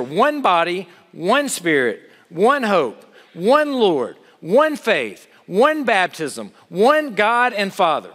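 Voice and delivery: slow, weighty reading with each one set apart; solemn scripture reading. Acted. Preacher reading the verse to his congregation, slow and solemn. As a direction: read the verse like a creed, unhurried. Reads scripture list aloud.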